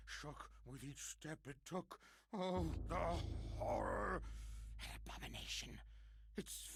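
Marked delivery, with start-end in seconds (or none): 2.3-4.2 loud anguished cry of horror; horrified cry. Acted. Outburst of terror.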